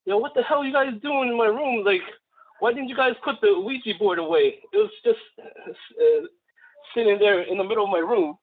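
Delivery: lightly voiced scolding; retold yelling. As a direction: imitate an annoyed sister telling them off, without real volume. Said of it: "my friend's sister was yelling at him".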